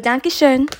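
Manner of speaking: lightly attempted German; a light try at a German accent; jokey German accent. Shown as a demonstration. Host retrying German despite pronunciation issues, jokey German accent. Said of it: "my little jokey attempt at, uh, at German".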